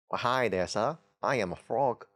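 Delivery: a hint of a British accent for the frog. Frog card greeting the viewer, lightly British. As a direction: lightly play the frog as a polite Brit. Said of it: "I don't know why frogs are British".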